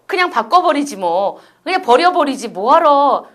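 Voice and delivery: dismissive mock Vietnamese speakers. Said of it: "해서".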